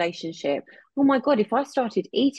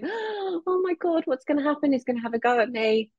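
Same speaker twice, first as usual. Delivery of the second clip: retold panic; 7 semitones higher than usual. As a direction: voice the dread of being shouted at. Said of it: "My nervous system went into".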